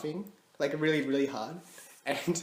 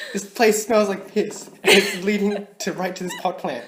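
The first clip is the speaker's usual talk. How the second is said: accusing mum; 5 semitones higher, 7 dB louder than usual. Retold or imitated. Mum accusing her in kitchen.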